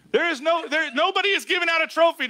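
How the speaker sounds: high, urgent pulpit exhortation; forceful preaching. Real, not acted. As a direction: drive each command home to the congregation.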